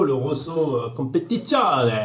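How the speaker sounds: slow, self-mocking Italian accent; Italian accent, hammed up for the brand name; bad Italian accent. Shown as a demonstration. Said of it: "avec mon accent horrible".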